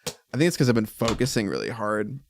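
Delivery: worn out, running on empty; caffeine crash. Real, not acted. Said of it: "I don't know why I'm crashing so hard".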